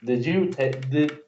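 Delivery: high, stunned question; can't believe what just happened; shocked disbelief. Real, not acted. Friend reacts to the blunder.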